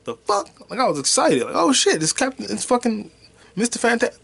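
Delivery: high, loud excited outburst; retold thrilled yell. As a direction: shout like the reveal just hit. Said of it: "I went like".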